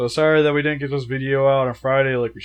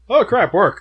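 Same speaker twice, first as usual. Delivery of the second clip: laughing; 6 semitones higher, 4 dB louder, slower than usual. Real, not acted. Laughing at own joke.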